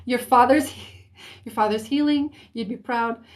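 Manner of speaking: lightly voiced East Coast accent; a touch of East Coast American twang. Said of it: "what kind of accent".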